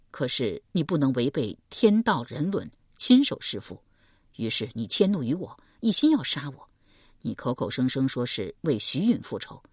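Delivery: man's voice Deng Yi. Acted. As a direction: speak as a steady young man.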